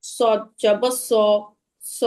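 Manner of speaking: সদ said like a light sin; slow, thin স with unrounded lips. Shown as a demonstration. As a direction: let সদ slip into a plain S. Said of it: "সিনের মতো অনেকটা উচ্চারণ".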